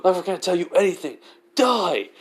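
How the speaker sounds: high, loud defiant shout; defiant yell. Acted. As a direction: scream it back at him. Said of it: "Which is basically like".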